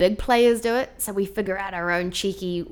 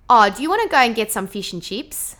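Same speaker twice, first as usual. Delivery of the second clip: lively Australian question, thin 'ee' in fish and chips; Australian twang with tight short I's; Australian accent; 2 semitones higher, 5 dB louder than usual. Shown as a demonstration. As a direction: ask it like an Aussie. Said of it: "an Australian would say something like".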